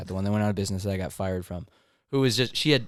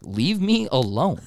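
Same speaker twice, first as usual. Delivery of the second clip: slow, drawn-out leave me alone; retold slow brush-off to the manager; blunt dismissal; 5 semitones higher, slower than usual. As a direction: push her away, slowly. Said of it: "I was like".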